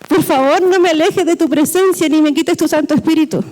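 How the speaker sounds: lightly acted tearful plea; pleading as weeping David. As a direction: beg God like a man crying, not quite sobbing. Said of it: "David, estaba llorando".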